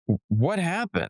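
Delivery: mock astonishment. Retelling a reunion with a suddenly fluent friend, acted surprise. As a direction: act out being taken aback.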